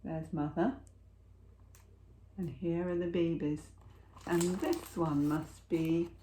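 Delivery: ordinary delivery, nothing marked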